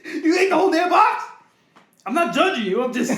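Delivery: high, loud, laughing disbelief; laughing loudly. Real, not acted. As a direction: crack up while calling him out. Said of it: "I'm just loudly saying it".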